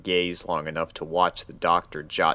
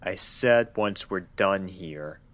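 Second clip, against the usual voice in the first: stern. Acted. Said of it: "his eyes narrowing a fraction".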